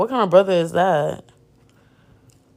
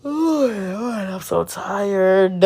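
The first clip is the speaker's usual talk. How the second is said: exasperated; 3 dB quieter, slower than usual. Real, not acted. Exasperated at character.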